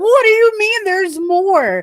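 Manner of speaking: mock disbelieving shriek, very high-pitched. Describing a story excerpt, retelling a character screaming in disbelief. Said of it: "just screaming".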